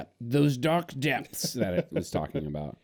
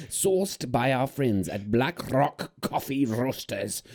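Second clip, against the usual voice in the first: pirate turning safari guide; 3 semitones higher, slower than usual. Acted. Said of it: "pirate voice kinda turned into, like, a safari guide's voice".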